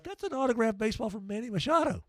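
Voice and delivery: dry disbelief. Retold or imitated. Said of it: "I'm like".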